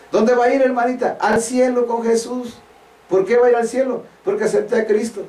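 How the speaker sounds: high-pitched, level question-and-answer with a believer; mock church dialogue. Preacher mimics asking a hermanita where she's going, mock church dialogue. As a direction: act out the sister's pat answers, pitched high. Acts out exchange with a sister.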